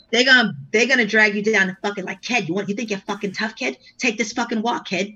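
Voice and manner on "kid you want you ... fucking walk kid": Boston tough guy. Retold or imitated. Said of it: "The white boys in Boston".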